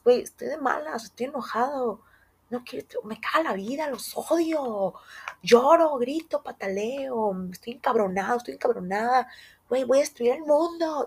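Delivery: mock a cranky little kid; kid tantrum. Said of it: "que dicen ellos". (niño berrinchudo, voz aguda y ligera)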